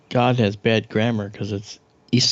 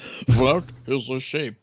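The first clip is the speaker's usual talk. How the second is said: slow deadpan repeat; slower than usual. Retold or imitated. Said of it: "I like that".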